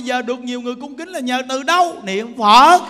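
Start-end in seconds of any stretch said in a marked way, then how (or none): 2.0-2.8 loud emphatic answer. Real, not acted. Answering his own question.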